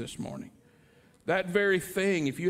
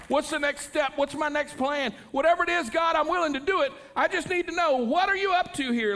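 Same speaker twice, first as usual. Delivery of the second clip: rising fervent prayer; 8 semitones higher than usual. Acted. Preacher voicing an excited prayer.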